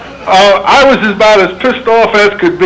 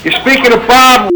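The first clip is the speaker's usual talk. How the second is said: raised voice; 5 semitones higher than usual. Real, not acted. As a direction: speak up so he can hear. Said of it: "Please don't yell, sir".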